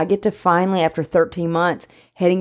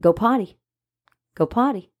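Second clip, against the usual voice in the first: higher-pitched repeated potty command; nagging dog owner; 4 semitones higher than usual. Acted. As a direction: pester them like an insistent dog owner. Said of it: "told you to go potty".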